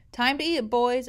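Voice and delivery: calling out across the boat; yell. Acted. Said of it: "I yelled".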